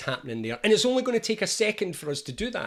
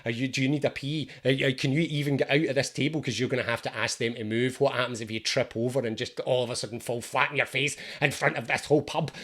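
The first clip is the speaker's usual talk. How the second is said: nagging inner voice; 6 semitones lower than usual. Retold or imitated. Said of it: "it's in there going like".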